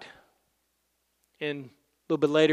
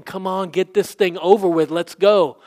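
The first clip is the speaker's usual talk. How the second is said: mildly raised, impatient urging; 3 semitones higher, 5 dB louder than usual. Retold or imitated. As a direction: hurry someone along, a touch exasperated. Voices impatient Jairus waiting on Jesus.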